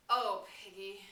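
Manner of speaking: slow, loud anguished cry; stricken. A narrator's reading. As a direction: ache on every word, slowly. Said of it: "low and stricken".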